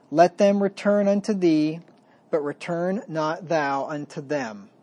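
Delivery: slow, solemn reading of the verses; scripture reading. Acted. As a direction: read it like holy writ, weighty and measured. Reads scripture aloud.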